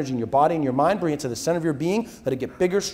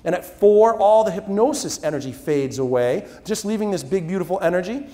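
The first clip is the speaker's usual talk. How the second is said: hypnotist's count-out. Acted.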